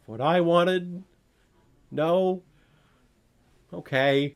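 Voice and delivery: lightly acted disappointed ticket holder; mildly put-out fan, pleading and questioning; let-down audience member. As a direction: complain like a short-changed concertgoer, half in jest. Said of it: "If I was the audience member".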